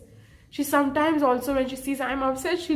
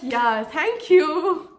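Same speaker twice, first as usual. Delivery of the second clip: slow, sweet, overly polite thanks, pitched up; calm polite reply; 4 semitones higher, 5 dB louder, much slower than usual. Retold or imitated. Now answering teasing classmates, sugary polite. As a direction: kill them with kindness, slowly. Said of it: "Now I'm like".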